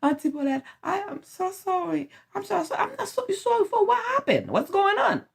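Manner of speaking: put-on high, small child's voice pleading sorry; apologetic boy. Boy apologizing to the aunt, high and pleading. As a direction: play the scared little boy, high.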